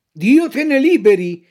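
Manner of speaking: loud mock-indignant fox; offended fox. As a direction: recoil in feigned outrage. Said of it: "chiamandosi offesa".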